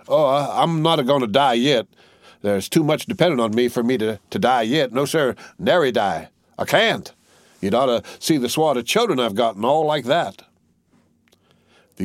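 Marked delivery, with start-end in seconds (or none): 0.1-10.4 higher, brisk and joking; reassuring. Acted. Tattered soldier reassures the youth he won't die yet, joking. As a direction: wave off the worry with a joke. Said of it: "waved his hand reassuringly".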